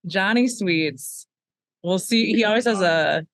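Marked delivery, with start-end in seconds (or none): 0.1-1.3 Johnny Sweets stretched slowly like an announcer; slow, savored intro of Johnny Sweets; host hyping the guest's entrance, slowly; drawn-out name. Shown as a demonstration. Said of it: "We're bringing Johnny Sweets in".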